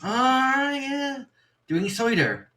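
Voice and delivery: high, exaggerated patronising voice; mocking Londoner. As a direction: ham up the city folk teasing about cider. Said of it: "And they're like".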